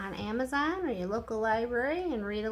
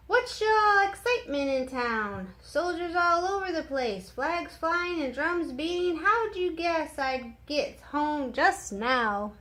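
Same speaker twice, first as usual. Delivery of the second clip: excited; 5 semitones higher, 4 dB louder than usual. A narrator's reading. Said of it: "slapped Nate on the back".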